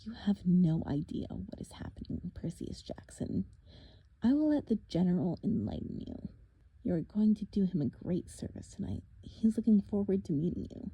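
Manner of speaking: a lightly voiced, taunting monster; mock them, a touch sinister; menacing villain. Villain taunting the half-blood at the cliff edge, lightly menacing. Thorne's voice.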